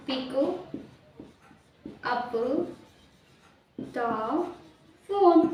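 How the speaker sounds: pick, up, the, phone each said alone with long pauses; slow word by word. Shown as a demonstration. Teacher to class, giving pick up the phone slowly word by word. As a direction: break pick up the phone into single words. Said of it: "उसके लिए बोलते हैं pick up the phone".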